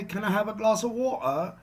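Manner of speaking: a hint of a British accent on the question; light British accent. Shown as a demonstration. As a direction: ask for water in a lightly posh British accent. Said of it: "That would be considered a native accent, British".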